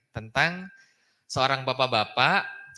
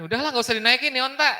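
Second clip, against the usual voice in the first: exasperated father; 11 semitones higher, 4 dB louder, much faster than usual. Retold or imitated. Father gives up, quoted.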